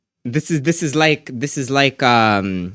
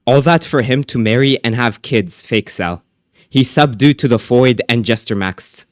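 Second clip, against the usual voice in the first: reading comments aloud; 5 dB louder than usual. Real, not acted. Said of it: "I'll read it for you".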